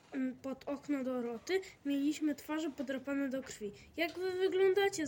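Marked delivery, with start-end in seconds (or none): 4.0-5.1 higher, louder alarmed cry up to a window; startled call. A narrator's reading. Girl at the window calls out at the scratched boys, alarmed. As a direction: call out in shock at their scratched faces. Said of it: "zawołała Dorota".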